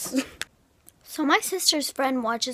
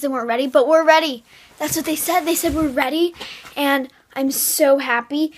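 louder, bubbly and thrilled; excited; 5 dB louder than usual. Real, not acted. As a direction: gush with real joy. Gushing about getting pointe shoes.

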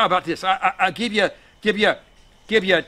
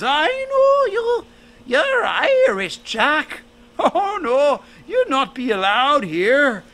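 very high, slow, tiny angel voice; little angel; 9 semitones higher, 5 dB louder, slower than usual. A narrator's reading. The littlest angel refuses Jack at the gates, tiny high voice. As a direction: squeak it out like a small child angel.

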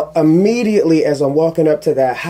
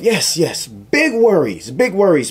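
ironic inner thought; 4 semitones higher than usual. Retold or imitated. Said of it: "I'm thinking to myself".

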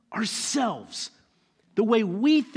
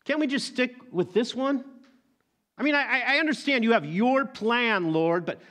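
higher, bargaining plea; pleading Abraham; 4 semitones higher than usual. Acted. Abraham pleading with God to keep Ishmael, lightly voiced plea. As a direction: haggle with God like a stubborn old man. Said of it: "Abraham's like".

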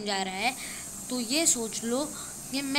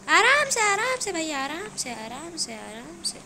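alarmed, then fading; 5 semitones higher, 3 dB louder than usual. Real, not acted. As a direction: start high in alarm and let each repeat sink. Panicked calls to take it easy. (घबराई पुकार, धीरे-धीरे धीमी होती)

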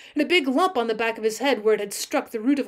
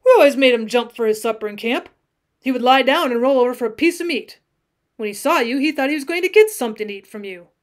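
louder, lightly voiced cowboy defense; earnest defensive cowboy; 6 dB louder, faster than usual. Cowboy excuses the lion's leap, earnestly defensive. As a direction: argue earnestly for the dead pet.

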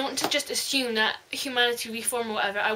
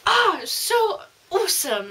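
high, loud fangirl delight; gleeful squeal; 7 semitones higher, 5 dB louder than usual. Retold or imitated. Reader cheering as Cassie kills Doctor Pam, gleeful squeal. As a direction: squeal it like your favourite villain just got what she deserved. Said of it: "and I was like".

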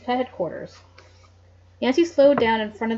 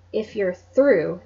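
coldly; 3 semitones lower, much slower than usual. Acted. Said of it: "Nancy said coldly".

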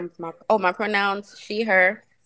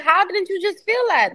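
incredulous question; 12 semitones higher than usual. Retold or imitated. Coworker retelling asking her boss, high incredulous question. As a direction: demand it, stunned she missed it. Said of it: "I'm like".

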